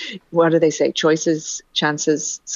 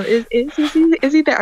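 put-on nervous young girl; 10 semitones higher than usual. Retold nervous phone call to boy.

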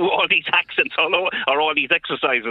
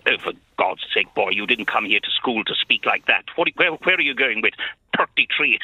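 lightly voiced London drama teacher; mock a teacher scolding a pupil's speech; a hint of exasperated elocution master; 4 semitones lower than usual. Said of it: "the teacher said to me".

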